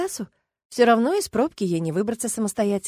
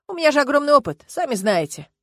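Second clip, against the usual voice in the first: smirking; 6 semitones higher, 6 dB louder than usual. A narrator's reading. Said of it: "усмехнулся он".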